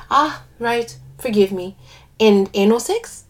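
put-on lilting West Indian accent. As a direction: speak with a light West Indian lilt. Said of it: "I do an accent for one of the characters".

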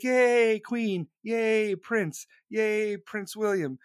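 mock cheering along with the crowd. Crowd greeting the royals on the palace steps, mock cheering. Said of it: "everyone's like".

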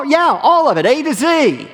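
high, loud boast; a pleased rich man boasting to Jesus; boastful rich man. Acted.

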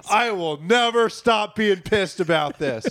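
slow, emphatic grievance; mild mock anger. Homeowner to firefighter about the fire, comically pissed. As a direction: spell out the grudge, deliberately.

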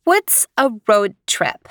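put-on slow, curious small-girl voice; a child's slow, wondering question; little girl's question. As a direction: voice Leanie as a puzzled three-year-old. Leanie the child asks.

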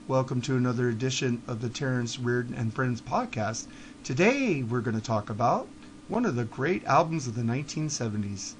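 mock the co-host's dull radio drone; imitating a droning NPR-style host; boring host imitation. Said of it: "You sound like this".

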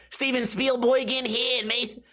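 high-pitched, botched New York cop; hammed-up New York accent; bad New York accent. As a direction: put on a badly faked New York accent. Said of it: "how to do a New York accent".

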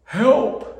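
high, loud plea of despair; desperate cry for help. Retold or imitated. Father alone in despair cries to God, high loud plea. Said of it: "Just despair".

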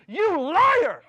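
high, loud yell of betrayal; furious shout. Retold or imitated. Dominique confronting him at the dance, loud furious shout. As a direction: scream it at him across the dance floor.

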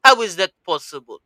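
lightly put-on Russian accent; playful Russian-accented disbelief; mock Russian accent. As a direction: ask it in a fake Russian accent. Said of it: "still do a better Russian accent than you can".

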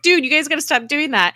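mock-aggrieved whine of protest; exasperated protest. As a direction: object loudly, as if just hit. Retold protest after being punched.

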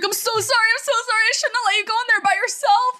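imitating Josh's apology in a high voice; a light put-on sorry voice; mock apology. Retelling Josh apologizing to her, mock high voice. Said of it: "he was like".

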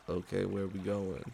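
laid-back stoner bro. Acted. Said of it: "the stoner bro voice".

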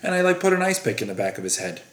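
nonchalant killer, imitated in an even monotone; Richard Kuklinski. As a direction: recount it like a dull errand. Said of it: "he's just so nonchalant".

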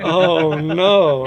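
hammed-up horror at your own mistake; retold dismay, played for laughs; mock dismay.

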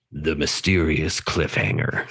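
low dramatic trailer announcer; movie trailer voice. Shown as a demonstration. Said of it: "I'll say it in my movie voice".

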